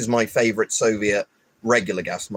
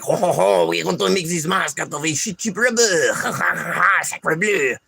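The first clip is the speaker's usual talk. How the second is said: high hammed-up French voice; mock French accent; 7 semitones higher than usual. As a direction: laugh it up like a smug Frenchman. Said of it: "They're made by frogs who are like".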